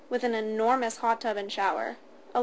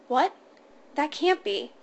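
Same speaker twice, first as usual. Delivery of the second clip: panicked; 4 semitones higher, 4 dB louder than usual. A narrator's reading. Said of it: "as panic started to set in".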